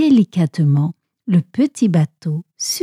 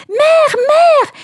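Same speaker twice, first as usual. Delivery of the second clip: calling from afar. A narrator's reading. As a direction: call out to mother while still far off. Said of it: "cria-t-elle alors qu'elle était encore loin".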